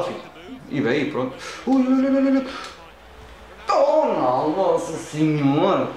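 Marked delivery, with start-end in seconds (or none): 1.7-5.9 anxious exclamations. Real, not acted. Near miss in the match.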